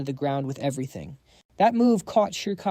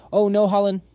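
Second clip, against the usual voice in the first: higher, louder call of alarm; alarmed cry; 6 semitones higher, 7 dB louder than usual. A narrator's reading. Guardian spotting danger near his friend, alarmed.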